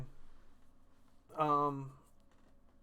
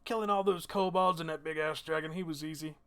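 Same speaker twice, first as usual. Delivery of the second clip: put-on drunken, boastful reveller, slow and pitched up; Thorben; 6 semitones higher, 8 dB louder than usual. Dwarf bragging about the kill after much drink, tipsy boasting. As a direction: drag the words out loudly, happily drunk. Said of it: "Thorben looks at you and he goes".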